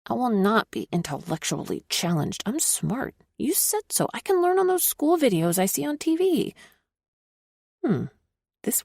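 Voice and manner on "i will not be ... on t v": put-on high, muffled little girl voice; muffled child voice. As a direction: speak into a shoulder, muffled and childlike. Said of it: "I hear a muffled voice say".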